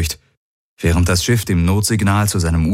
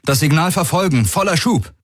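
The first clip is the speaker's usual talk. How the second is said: much higher, urgent order; called-out command; 9 semitones higher than usual. A narrator's reading. Captain orders the ship to chase the signal, calling out. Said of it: "rief Garland".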